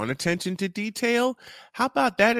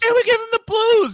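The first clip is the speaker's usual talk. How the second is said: shouting; 13 semitones higher, 6 dB louder than usual. Acted. Repeating the phrase with gusto.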